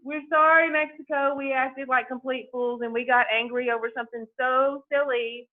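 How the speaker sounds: emphatic, acted-out apology; mock apology. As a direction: plead forgiveness on someone else's behalf. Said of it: "it's an apology letter to Mexico".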